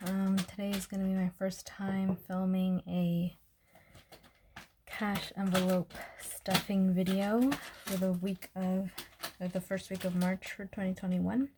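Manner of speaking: breathless, catching her breath. Real, not acted. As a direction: talk while still winded. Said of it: "sorry, I'm out of breath".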